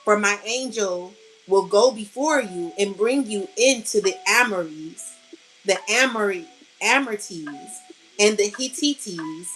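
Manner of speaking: measured, solemn Bible reading; scripture reading. Acted. Spiritual reader reciting scripture to her collective, solemn. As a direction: read it out like a verse from the pulpit.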